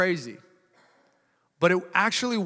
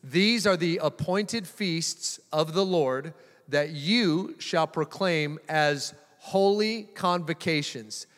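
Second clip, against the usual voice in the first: slow solemn Bible reading; scripture reading; slower than usual. Acted. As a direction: read the verse slowly, with weight. Reads scripture aloud.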